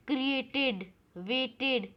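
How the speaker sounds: "क्रिएटेड, वेटेड" with a separate last syllable; "id" ending. Shown as a demonstration. Teacher shows rhyming words, "क्रिएटेड, वेटेड" ending in an id syllable. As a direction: sound out the final -ted in "क्रिएटेड, वेटेड". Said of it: "हम इसे pronounce करते हैं आईडी में".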